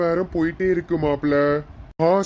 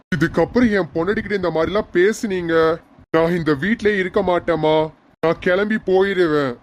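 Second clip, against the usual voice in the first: angry son; 2 semitones higher than usual. Acted. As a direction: stand up for your wife, firm and fed up. Son scolds mother over wife. (மனைவிக்காக அம்மாவை கோபமாக கண்டிக்கும் மகன்)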